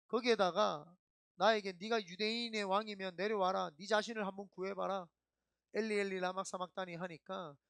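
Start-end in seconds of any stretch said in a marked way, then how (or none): 1.7-7.0 retold jeering of the crowd; lightly acted mockery; a hint of a sneering mob; mocking taunt. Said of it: "막 하면서 조롱하고".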